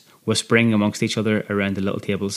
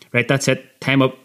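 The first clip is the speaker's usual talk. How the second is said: sharp, higher barked command; barked order; 4 semitones higher than usual. Acted. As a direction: bark it like a prison guard. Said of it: "he barked over my shoulder".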